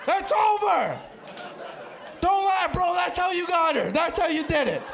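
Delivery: jokey shout at the guy in the crowd; playful call-out. Real, not acted. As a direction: call him out across the room. Calling out audience member.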